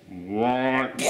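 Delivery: stretched wordless "waah"; slow-motion cry. Retold or imitated. Reviewer replaying the slow-motion moment for a gif, drawn-out cry. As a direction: draw the syllable out, then cut it. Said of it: "it's in slow motion".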